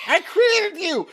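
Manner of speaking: very high, slow, loud cry; dramatic shout. Pretend. Goblin crying out to the rotting orcs, very high and slow. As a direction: declaim it like a mad creator.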